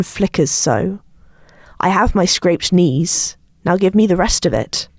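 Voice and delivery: slow, deliberate poem recital; poem reading. Acted. Reading a friend's poem aloud to the group, slow and deliberate. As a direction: let each line land slowly.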